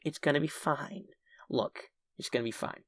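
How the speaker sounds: soft, composed reassurance; calm reassurance. Retold or imitated. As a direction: play it quietly unbothered. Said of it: "I'm still very calm and collected".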